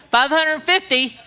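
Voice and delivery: laughing. Real, not acted. Punchline of the story.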